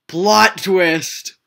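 hushed dramatic whisper; whispered narration building suspense. Acted. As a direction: breathe it secretly. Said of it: "whispered narration".

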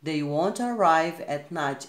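slow reading using "won't"; slow example with contraction; slow contracted form. Shown as a demonstration. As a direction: squeeze it to "won't", steady pace. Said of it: "Está aqui na forma contraída".

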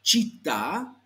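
"Città" with a ch onset, final a stressed; deliberate teacher's "Città", held double t; correct Italian pronunciation. Shown as a demonstration. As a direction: model "Città" as "cheet-TAH" for a learner. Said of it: "cuidado que eso no es".

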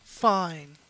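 sassy. Retold or imitated. Player mimics the game girl's reply, sassy. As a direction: toss it back with sass. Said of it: "She sounded so sassy with it".

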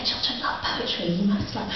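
soft, whispered aside; confiding parent. Retold or imitated. Mock parent whispering to the poet about children. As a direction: lean in and murmur it conspiratorially. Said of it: "And they're like".

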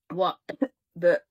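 choking on smoke mid-word; coughing. A narrator's reading. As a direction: cough through the words. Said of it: "we coughed".

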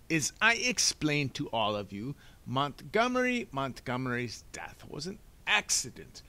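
dismissive Doctor Lucafont. Acted. Doctor insisting the death was accident, pompous and dismissive. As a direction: lay it down as settled fact.

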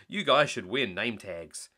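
slow, weary sigh of a line. Acted. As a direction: shake your head at the reindeer, slowly. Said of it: "Chase said with a sigh".

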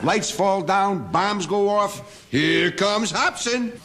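sarcastic. Acted. Mocking him as disaster magnet.

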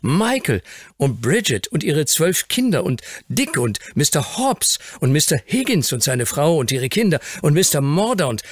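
put-on high child's excited list; enthusiastic young Fauntleroy. A narrator's reading. Grandson lists the people the Earl made happy, enthusiastic high voice. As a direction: reel off each name proudly, pitched high.

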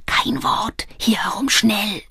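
hushed and hurried; secretive whispered urging; urgent whisper. A narrator's reading. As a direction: whisper the warning so no one in the house hears. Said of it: "flüsterte er".

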